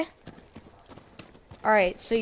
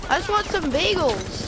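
high pleading yell; frat bro; 6 semitones higher than usual. Real, not acted. Pleading while attacked.

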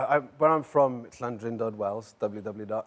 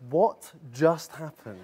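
slow, puzzled what-just-happened; mildly baffled, said slowly; baffled mates; 5 semitones higher, slower than usual. Retold or imitated. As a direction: retell the mates' bafflement, drawn out. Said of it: "my mates were like".

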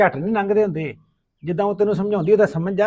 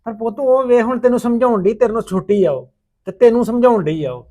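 father raising his voice to scold, louder; a father losing patience, louder; raised voice; 4 semitones higher, 7 dB louder than usual. Acted. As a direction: press her hard, voice up. Father scolding daughter in quarrel.

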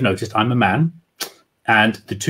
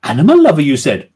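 posh woman voice; 3 semitones higher, 4 dB louder than usual. Acted. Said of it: "doing women's voices".

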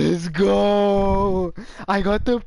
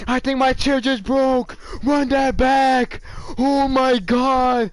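excited; 5 semitones higher than usual. Real, not acted. Still celebrating, repeating the hype.

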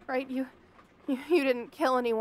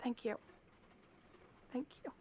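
cowed murmur; 17 dB quieter, faster than usual. Acted. Forced thanks to captor.

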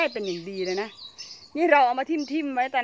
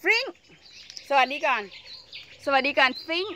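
higher, louder coaxing call; 5 semitones higher, 5 dB louder than usual. Real, not acted. Calling to the pet Fring to greet the camera, coaxing. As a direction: coax the pet to say hello.

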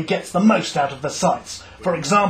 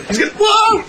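startled whoa; 5 dB louder than usual. Acted. Manager lunges, interview ends.

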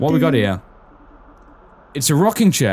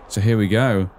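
usual speaking voice

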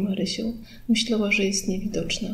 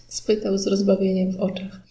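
ordinary delivery, nothing marked

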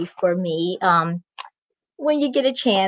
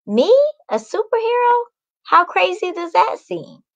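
amused disbelief; 8 semitones higher than usual. A narrator's reading. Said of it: "Macy says to herself".

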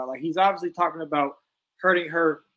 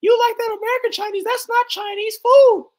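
imitating Angie; 8 dB louder than usual. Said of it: "She used to be like".

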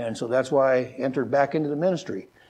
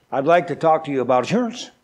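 quick, slightly run-together sales opener; said fast; faster than usual. Shown as a demonstration. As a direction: say it fast so the last word blurs. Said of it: "if you say that really fast".

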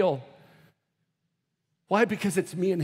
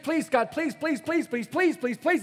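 imitated pleading; 9 semitones higher than usual. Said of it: "you've prayed and prayed and prayed".

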